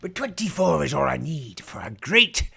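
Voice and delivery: slow hammy pirate captain. Pretend. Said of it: "a terrible impression of a pirate".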